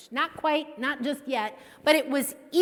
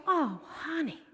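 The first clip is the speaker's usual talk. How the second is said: mom teasing; 5 semitones higher, 8 dB louder than usual. Retold or imitated. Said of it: "And she goes".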